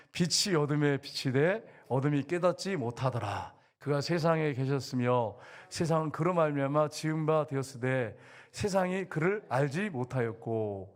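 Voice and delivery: slow, measured Bible recitation; drawn-out, even formal verse reading; scripture reading. Acted. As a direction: read slowly so the congregation reads along. Reads scripture with congregation.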